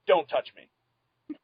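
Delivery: "don't touch me" dragged out slowly; very slow, drawn out. Real, not acted. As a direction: stretch "don't touch me" out for comic effect. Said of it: "there are two things".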